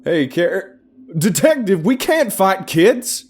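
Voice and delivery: loud, high yell from a distance. A narrator's reading. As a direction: call out urgently to stop a fight. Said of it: "the man yelled as he ran our way".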